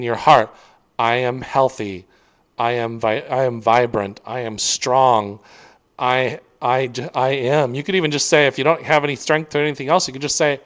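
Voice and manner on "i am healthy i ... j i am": affirmation. Shown as a demonstration. Coach demonstrating healing affirmations, slow and sincere. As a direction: say them slowly, letting each one sink in. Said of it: "you start saying and you start feeling this".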